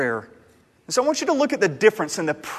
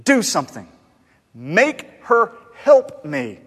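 exasperated Martha; 3 semitones higher, 5 dB louder, slower than usual. Retold or imitated. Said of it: "she essentially says".

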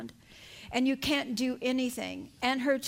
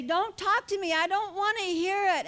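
higher-pitched, retold protest; acted refusal; 5 semitones higher than usual. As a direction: push the inner voice away, pitch raised. Acts out refusing the inner voice.

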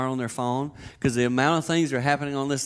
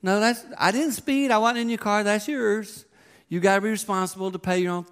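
higher, emphatic mock dad; firm dad refusal; 7 semitones higher than usual. Dad refusing to pay son's ticket, emphatic. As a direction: refuse flatly, lecturing. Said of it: "I said".

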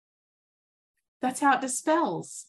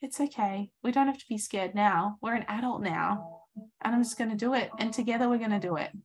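reassuring self-talk. Retold or imitated. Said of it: "I thought".

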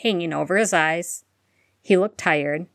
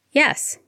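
a firm, emphatic yes pitched higher; 9 semitones higher than usual. A narrator's reading. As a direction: say it with total certainty. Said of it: "Harry answered emphatically".

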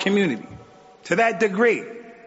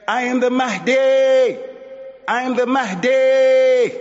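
high, loud mock scream; retold scream; 7 semitones higher, 3 dB louder, slower than usual. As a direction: shout it like a frantic proclamation. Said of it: "she just screamed and said".

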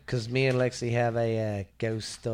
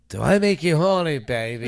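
sleazy lover voice; 4 semitones higher, 8 dB louder than usual. Pretend.

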